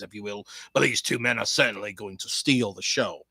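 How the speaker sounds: brisk, polished wrestling preview read; match preview read. Acted. Reading the match preview to viewers, announcer style.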